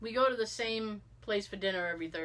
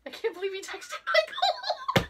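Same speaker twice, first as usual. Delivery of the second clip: high, laughing wail of disbelief; wife wailing to husband in bed, high; whiny lament; 4 dB louder than usual. Retold or imitated. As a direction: moan it half laughing, half crying. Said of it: "and I'm like".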